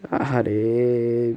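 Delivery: slow, long-drawn "আহারে" with a sinking sigh; drawn-out sigh of regret. Real, not acted. Gamer groans at falling wicket: slow "আহারে". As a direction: let "আহারে" sag out slowly as the wicket falls. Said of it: "আমি আহারে বলতেছি কেন".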